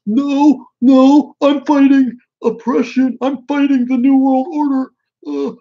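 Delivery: very high, loud whiny mockery; mock mask-wearer. Streamer mocking clueless masked protesters, squealing protest. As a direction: wail it in a squeaky, hammed-up voice. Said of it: "they're just like".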